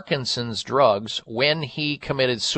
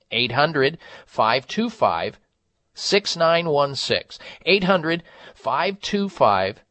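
hard sell ad. Acted. Host reads a Provia ad.

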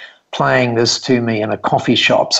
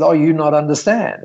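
lightly voiced Japanese accent, a bit higher; 5 semitones higher than usual. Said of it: "in this lovely Japanese accent".

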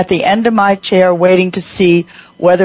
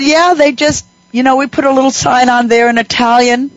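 lightly imitated Southern woman, higher pitch; a touch of Southern accent, pitched up; 6 semitones higher than usual. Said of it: "she had a southern accent".

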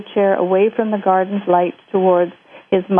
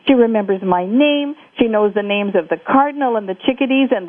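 excited phone call; 4 semitones higher than usual. Acted. Jake phones his mother.

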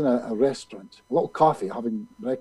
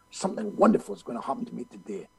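higher-pitched recital with mild feeling; 4 semitones higher, 6 dB quieter, faster than usual. Retold or imitated. Friend showing Bob the morning affirmation, with mild feeling. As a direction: lift WONDERFUL a little, imitating the friend. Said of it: "you say with feeling".

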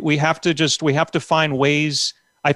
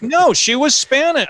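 high insistent comeback; mock indignant reply; exasperated retort; 9 semitones higher than usual. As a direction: state the obvious, baffled. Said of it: "I'm like".

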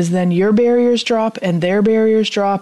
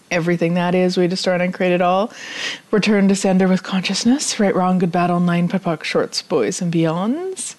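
quick, rote recitation of the formula; ritual clearing statement. Acted. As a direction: rattle off the clearing words like a chant.

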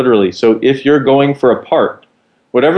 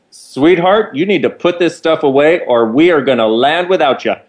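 higher, sassy camp steward warning; a pitched-up camp cabin-crew ultimatum; higher theatrical flight attendant, firm; 5 semitones higher than usual. Retold or imitated.

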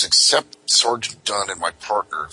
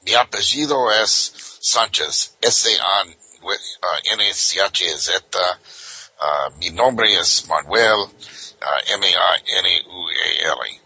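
put-on Spanish accent. Playing the illegal immigrant for the cop in a Spanish accent. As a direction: play dumb in a thick Spanish accent.

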